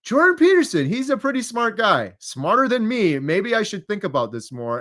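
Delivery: retold wide-eyed realization; impressed reaction. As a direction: exclaim the name, then reason it out. Acting out his own astonished reasoning.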